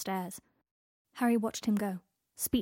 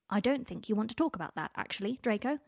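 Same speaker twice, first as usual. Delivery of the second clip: carefully level. Acted. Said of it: "working very hard to keep his voice level".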